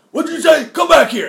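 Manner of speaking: high, loud mock outrage; Alex Jones. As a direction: shout after someone walking off, hammed-up. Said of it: "And then Alex was like".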